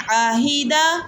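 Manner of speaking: آہیدہ with ع pressed from mid-throat; throaty ع. Shown as a demonstration. Teacher models the proper ع in آہیدہ. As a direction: make the ع in آہیدہ clearly from the throat. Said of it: "فرق محسوس کریں".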